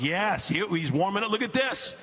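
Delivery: a hopeful dad finally seeing action; mock excitement. Dad cheering son's VR workout.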